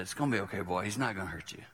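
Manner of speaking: softened, comforting murmur; gently calm a scared child; soft reassurance. Retold or imitated. Grandpa hugging the frightened boy, soft and reassuring.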